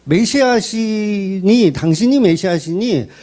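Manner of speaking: drawn-out, mock-coaxing sarcasm; sarcastic urging. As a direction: stretch the opening words with a mild needling edge. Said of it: "그 얘기를 비꼬면서 이야기하는 거예요". (살짝 비꼬는 말투로 늘여서)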